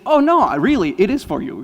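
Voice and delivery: high, loud, gallant offer; imagined gallant reply. Pretend. Handing a passing girl the flowers, gallantly. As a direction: sweep her off her feet with it.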